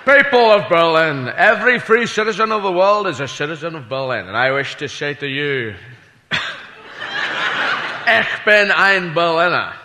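orate to the Berlin crowd; Kennedy speech. Retold or imitated. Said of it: "he said".

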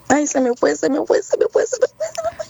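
rising panicked repetition. Real, not acted. Caller panicking, forgot the answer.

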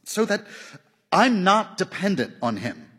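high-pitched, shocked woman's protest. A narrator's reading. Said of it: "her voice shocked".

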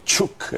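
Chuk with CZ said as "tch"; Slavic CZ sound. Shown as a demonstration. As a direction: demonstrate Chuk, starting on a "tch". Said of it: "Toda vez que você tem o C Z".

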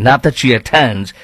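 normal talking voice

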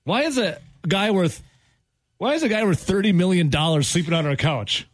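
wife's disbelief. Retold or imitated. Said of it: "Googles him quick".

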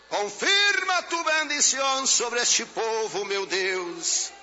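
high, ringing plea to God, easing at the end; impassioned high-pitched invocation; fervent prayer cry. Real, not acted. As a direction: cry out the blessing over the congregation. Fervent prayer over the congregation.

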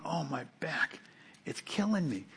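soft, whiny mock moan about a sore back; mock complaining. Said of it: "This isn't like me going".

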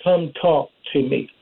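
lightly voiced God, pitched a little low; a hint of a divine summons, low and measured. God calling the preacher to talk, lightly voiced low summons. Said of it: "I can hear the voice of God telling me".

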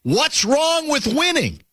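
high, drawn-out mock bellow; slow, high-pitched quoted challenge; retold bellow. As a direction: bellow it slowly like a courtside challenge, without real volume. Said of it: "He bellowed this to me".

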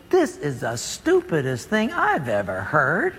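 a muttered sneer at the order; scornful thought. Retold or imitated. Naaman scoffing at the prophet's order, low and slow. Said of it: "Naaman thinks".

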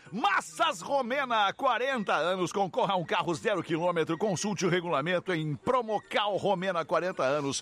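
slow, drawn-out radio ad read; announcer selling the sponsor. Acted. Reads sponsor ads slowly. (leitura de anúncio)

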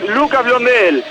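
measured stadium lineup read; number then name, each one presented. Acted. Reporter reading Argentinos' eleven to the broadcast, announcer read.

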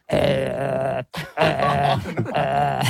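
low, drawn-out "uh"; mock French filler noise. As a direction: imitate French with long low hesitation noises. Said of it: "You just do a lot of".

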